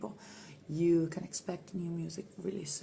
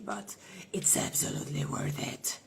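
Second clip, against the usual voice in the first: whisper; 5 semitones lower, 4 dB quieter than usual. Acted. Whispered aside.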